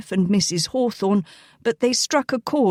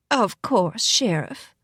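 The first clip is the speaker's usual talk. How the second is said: firm pleasant rasp; slower than usual. A narrator's reading. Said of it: "in a firm but oddly pleasant, rasping voice".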